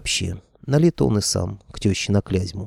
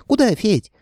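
very high squeak, a little louder; squeaky head; 14 semitones higher, 5 dB louder than usual. A narrator's reading. Left dragon head squeaking at Fedya, high squeak. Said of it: "пискнула левая голова".

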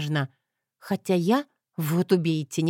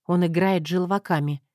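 ordinary delivery

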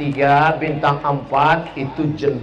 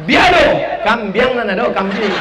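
laughing mock reply; 5 semitones higher than usual. Minang diner mishears the greeting.

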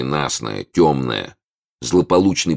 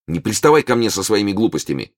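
нетерпеливый окрик; 6 semitones higher than usual. Acted. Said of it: "крикнул король нетерпеливо".

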